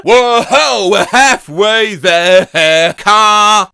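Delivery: slow stretched loud shout; loud drawn-out call. Acted. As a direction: belt it out slowly. Acted meme, loud drawn out.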